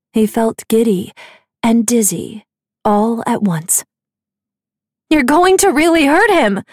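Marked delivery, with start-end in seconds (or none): 5.1-6.6 high, loud alarmed shout. A narrator's reading. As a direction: yell it to stop the fight. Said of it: "Nicasia shouted".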